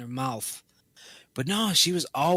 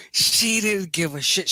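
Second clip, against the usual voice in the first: high mock voice; 7 semitones higher, 5 dB louder, slower than usual. Voicing the indifferent neighbour.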